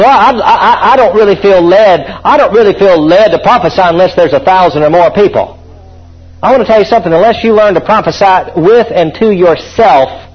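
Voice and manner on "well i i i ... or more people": laughing mock excuse. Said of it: "Somebody says".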